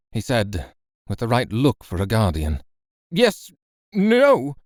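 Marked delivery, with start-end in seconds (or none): 3.1-4.6 flustered stammer. Acted. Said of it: "I stammered".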